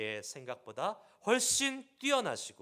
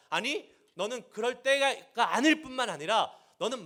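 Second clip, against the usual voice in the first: louder, higher, 아닐 hit hard and rising; God's rebuke intensifying, louder; building rebuke; 7 semitones higher, 8 dB louder than usual. Pretend. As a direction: escalate the scolding, punch 아닐. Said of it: "다그치세요".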